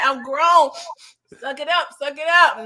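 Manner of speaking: telling herself off. Real, not acted. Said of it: "And I'm like".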